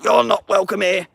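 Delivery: snooty brush-off at the door; mocking the friend. The betraying friend refusing him, high mocking voice.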